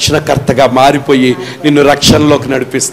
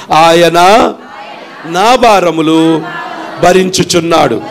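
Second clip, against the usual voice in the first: slow, spaced words for the people to echo; slow for repeating; slower than usual. Shown as a demonstration. Preacher leads the congregation to repeat the verse, slow and spaced. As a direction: lead them word by word. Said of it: "అందరూ ఈ మాటలు చెప్పండి".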